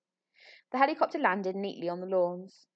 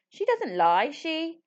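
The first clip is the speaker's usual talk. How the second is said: louder, rising insistent protest; urgent interruption; 8 semitones higher, 4 dB louder, slower than usual. Acted. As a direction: blurt it out before being stopped.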